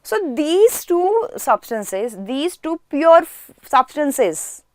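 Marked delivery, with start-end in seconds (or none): 2.2-4.6 "pure" emphasized, pitched up; teacher underlining "pure" with the voice; stress on pure. Real, not acted. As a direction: lean firmly on the word "pure". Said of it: "I am emphasizing on the word pure substances".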